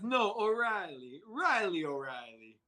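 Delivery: put-on a faint, failed try at an Irish accent; half-hearted Irish brogue, barely there; bad Irish accent. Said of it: "That's terrible Irish accent".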